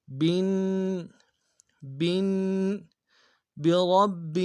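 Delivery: برب with the ba held and doubled. Shown as a demonstration. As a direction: press the ba of برب with shadda. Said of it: "تشدید کے ساتھ ملانا ہے". (برب میں با پر تشدید کا زور)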